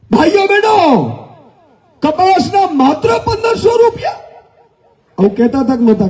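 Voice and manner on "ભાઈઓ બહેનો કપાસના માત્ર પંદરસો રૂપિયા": imitating Modi's speech. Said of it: "આમ કે".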